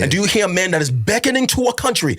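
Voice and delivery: fervent, pleading sermon cadence; impassioned preaching. Real, not acted. Pastor urging brothers and sisters back to scripture, impassioned preaching. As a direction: drive each repeated appeal home like a preacher.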